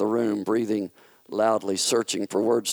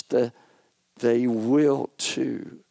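put-on childish retort; much slower than usual. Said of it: "His retort was childish".

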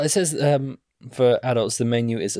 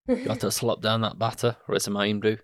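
put-on Scottish accent; 4 dB quieter than usual. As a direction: recommend it in a playful Scottish accent. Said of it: "That's a really good Scottish accent".

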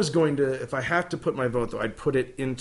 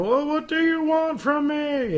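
exasperated homeowner; 4 dB louder than usual. Retold or imitated. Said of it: "The people who are dealing with a haunt".

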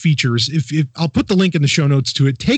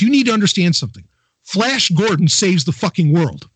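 a hint of a thick Italian producer; heavy Italian accent. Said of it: "Imagine him with a very heavy Italian accent".

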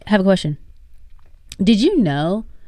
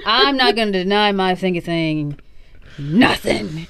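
laughing voice. Retold or imitated. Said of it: "And he's like".

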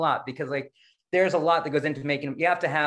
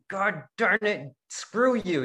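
slow, grudging mock curse at the Buddha; resentful curse; 4 semitones higher, much slower than usual. To the Buddha, bowing every week, grudging slow curse. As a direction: spit it out with resentment. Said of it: "put on a robe and went".

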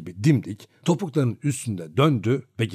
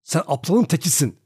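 higher, louder furious yell; boy yelling at coachman Piotr, higher and louder; shouting boy; 6 semitones higher, 5 dB louder than usual. A narrator's reading. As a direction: throw him out of the cart at full voice. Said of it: "diye bağırdım ben de ona".

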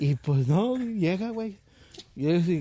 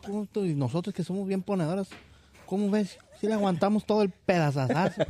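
high sister voice; 5 semitones higher, faster than usual. Retold or imitated.

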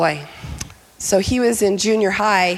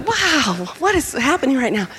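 acted amazement; 4 semitones higher than usual. Mom watching son writhe.

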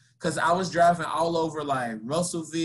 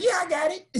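much higher, breezy mock assurance; fake confidence; 13 semitones higher, faster than usual. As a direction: pretend you know the way. Fakes confidence, doesn't know way.

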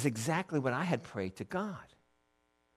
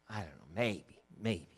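low, very soft noncommittal reply; reluctant mumble; 8 semitones lower, 9 dB quieter than usual. Acted. Children of Israel answering whether they trust God, low hesitant reply. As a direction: hedge quietly, dropping the pitch.

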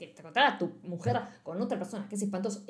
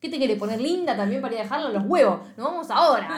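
louder bossy scolding; mock angry order; 2 semitones higher, 4 dB louder than usual. Girlfriend ordering her to leave now, mock angry.

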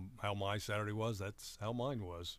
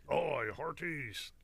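pirate voice; 5 semitones higher, slower than usual. Retold or imitated. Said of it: "you're better at this than I expected".

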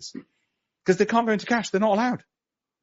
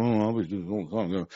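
mock boaster; 3 semitones lower, 6 dB quieter than usual. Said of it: "don't think last year was typical".

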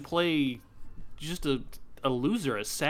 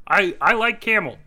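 odd, louder put-on sound guy voice; 6 semitones higher, 9 dB louder than usual. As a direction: play the goofy sound editor. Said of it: "it's sound guy".

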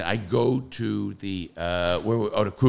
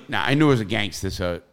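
ordinary talk

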